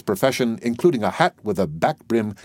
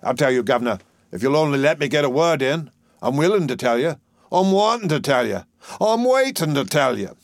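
higher, lilting Cockney plea; musical, melancholy dustman; 6 semitones higher, 4 dB louder than usual. A narrator's reading. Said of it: "Doolittle speaking very musically and melancholy".

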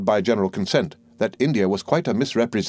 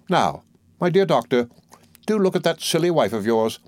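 a hint of a fussy, self-important old lady, pitched higher; lightly voiced old mother-in-law; 4 semitones higher than usual. The old soldier pressing her point on the doctor, lightly voiced. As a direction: play the bossy mother holding forth, higher.

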